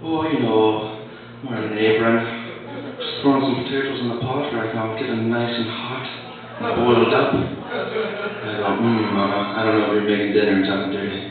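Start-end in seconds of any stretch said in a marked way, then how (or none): 0.0-7.3 lightly voiced Irish woman; playful Irish accent on a sexy phone call. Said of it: "call an Irish woman up". 8.8-11.2 lightly voiced low, sultry caller; low, hammed-up phone flirting; flirty caller.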